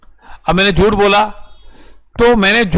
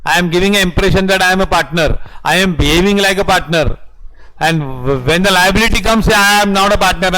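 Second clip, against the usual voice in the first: slow, measured, word by word; slow dictation; much slower than usual. Acted. Teacher dictating the partner example to the class, slow and measured. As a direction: let them write every word.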